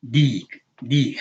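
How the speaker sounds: "deek" with an elongated ee; long e sound. Shown as a demonstration. Teaching the word for rooster, long e sound. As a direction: hold the ee in "deek". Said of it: "to make a long e sound".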